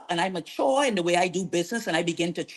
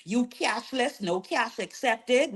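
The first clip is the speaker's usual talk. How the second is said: mimicked griping, higher and softer; complaining clients; 3 semitones higher, 5 dB quieter than usual. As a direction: imitate put-out customers listing their complaints. Voices her people's complaints.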